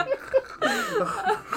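imitated wheezing old-engine noise; old engine wheeze. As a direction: wheeze high like an engine failing to start. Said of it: "I sounded like an old engine".

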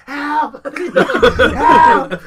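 high, laughing cry for help; half-laughing yell for help; laughing mock yell. Retelling calling out during his son's birth, laughing mock yell. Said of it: "I'm yelling like".

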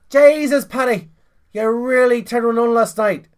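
high, loud Irish wife voice; scolding Irish wife. Acted. Wife to Paddy the morning after, high loud exclamation.

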